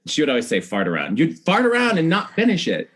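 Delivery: a hint of a bossy mom laying down the law; voicing mom. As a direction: briskly lecture like a no-nonsense mother. Mom lecturing child.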